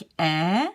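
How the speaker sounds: "E" said open, as in care; open French è. Shown as a demonstration. Teacher explains the falling accent, open è. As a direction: open eh sound on "E". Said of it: "If it's the accent going down".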